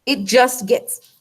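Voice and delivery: choking on food mid-sentence; words caught in the throat. Real, not acted. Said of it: "I think I'm choking on some granola".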